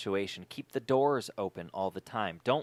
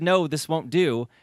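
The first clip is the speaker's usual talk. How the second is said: God's voice; 3 semitones higher, 4 dB louder than usual. Acted. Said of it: "Then God said".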